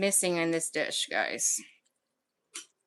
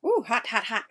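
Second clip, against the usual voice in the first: talking around a hot bite; hot food in the mouth; mouth full of hot food. Real, not acted. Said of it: "I'm gonna burn myself".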